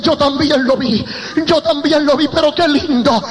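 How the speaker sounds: nurses' cries climbing in pitch; retold excited cries. Nurses saying they saw him too, retold mounting cries. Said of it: "Las enfermeras empezaron a gritar".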